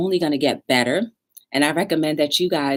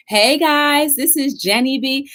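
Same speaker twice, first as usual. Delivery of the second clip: excited greeting; 8 semitones higher, 3 dB louder than usual. Real, not acted.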